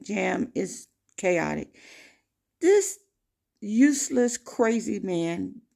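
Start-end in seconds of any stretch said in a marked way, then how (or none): 2.6-5.6 angry outburst. Retold or imitated. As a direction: spit out the insult in disbelief. Furious about the driver.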